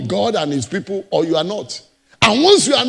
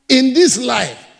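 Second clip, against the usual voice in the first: "in this life" again, punched louder on "this"; louder repeat; 2 semitones higher, 5 dB louder, slower than usual. Acted. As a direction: hit "this" hard the second time. Preacher repeats phrase for emphasis.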